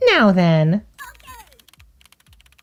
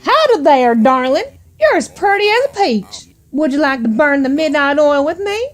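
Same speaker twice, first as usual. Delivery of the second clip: put-on American cowboy accent. Streamer voicing a flirting suitor, mock American cowboy accent. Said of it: "my flawless interpretation of an American cowboy".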